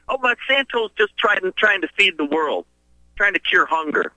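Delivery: hint of a credulous young activist; imitated young leftist. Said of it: "some young leftist tell me once".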